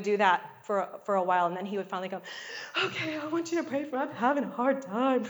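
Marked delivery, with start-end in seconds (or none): 2.8-5.2 put-on small child voice. Son finally asks for prayer.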